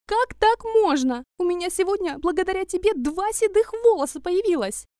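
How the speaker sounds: high, loud hysterical shrieking; shrieking mother. A narrator's reading. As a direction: scream it at your son, beside yourself. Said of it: "завизжала на всю квартиру".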